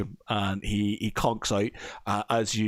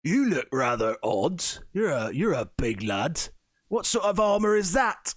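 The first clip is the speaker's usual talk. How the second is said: swooping, suspicious in-character voice rising at the end; nosy local; 7 semitones higher than usual. Acted. Game master as local eyeing a big armoured stranger, nosy. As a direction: look them over and question them, pitch swinging.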